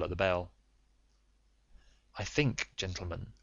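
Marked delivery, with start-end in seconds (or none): 2.2-3.3 Holmes speaks softly, barely above a murmur; a quiet, hushed warning. A narrator's reading. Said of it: "said Holmes quietly".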